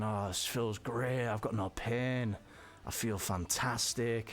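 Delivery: slow, dreamy, drugged contentment; blissed-out relaxed. Retold or imitated. Slow dreamy bliss, reliving how good the painkillers felt. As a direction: let each phrase drift out slowly, at ease. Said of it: "just felt so, uh, at ease and relaxed".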